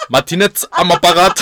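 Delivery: laughing through the phone greeting; giggling while answering. Retold or imitated. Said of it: "Yo digo".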